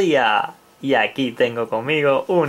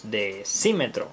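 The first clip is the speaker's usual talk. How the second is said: "decímetro" lower and softer, stressed on CÍ; 5 semitones lower, 5 dB quieter than usual. Shown as a demonstration. Teacher repeating for children, soft stress on the í of "decímetro". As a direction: quietly lean on the í of "decímetro". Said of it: "también lleva acento en la I".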